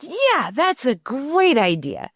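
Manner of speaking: retold daughter agreeing, lightly voiced child; child's reply. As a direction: imitate a five-year-old agreeing. Daughter answering her mother.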